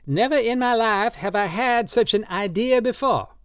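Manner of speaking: put-on high, slow, pleading old man's voice; old tattooist Drioli, drunk and pleading. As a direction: coax him tenderly, in wine. Drioli coaxes Josie.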